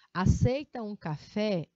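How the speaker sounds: slow, drawn-out offer of coffee; slow questioning tone. Shown as a demonstration. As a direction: ask it slowly, making the question clear. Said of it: "Olha o tom da voz".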